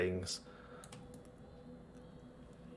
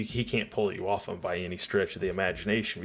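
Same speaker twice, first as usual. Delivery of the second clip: ordinary talk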